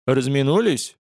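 plain reading voice

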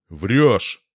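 loud sharp retort; accusing. A narrator's reading. Marat snaps at the lying watchman, loud and accusing. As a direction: throw the lie back at him, loud.

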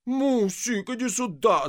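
high, loud alarmed call for help; frightened call. A narrator's reading. Frightened engineer calling his wife for help. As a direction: call her in a panic. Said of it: "закричал испуганный инженер".

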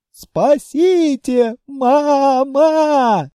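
loud, drawn-out, high howl; wailing plea. Acted. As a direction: cry out as you're dragged. Lizards dragged, crying for help.

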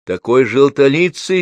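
high, loud, stretched-out call; shouted reply. A narrator's reading. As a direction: call it out over the noise. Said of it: "крикнула тётя Груша".

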